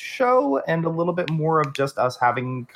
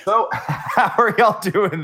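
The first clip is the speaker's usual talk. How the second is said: slow, laughing through the words; 6 semitones higher, 4 dB louder, slower than usual. Real, not acted. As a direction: giggle while asking. Laughing during question.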